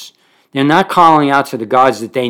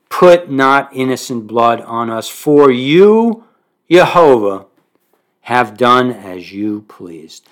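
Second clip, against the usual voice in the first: fervent prayer; 3 dB louder, slower than usual. Acted. Sailors' prayer read fervently.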